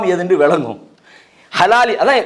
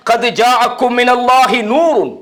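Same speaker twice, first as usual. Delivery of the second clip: slow, sustained Arabic recitation; Quran recitation; 3 semitones higher, slower than usual. Acted. Preacher closes on God's word, slow sustained recitation. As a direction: hold the long vowels of the verse. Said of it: "எனவே தான் அல்லாஹ் சொல்றான்".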